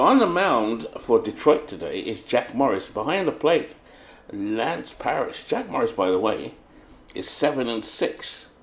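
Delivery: brisk ballpark lineup call, each position lifted; play-by-play announcer. Acted. Streamer announcing the Tigers and Yankees lineups, announcer style. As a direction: call the lineup like a radio broadcaster.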